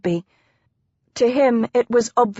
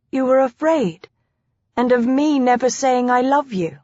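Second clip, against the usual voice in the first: higher-pitched, disbelieving questions; rising, incredulous wife's voice; astonished wife; 4 semitones higher than usual. Acted. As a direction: question him in amazement. Wife astonished at husband's confession.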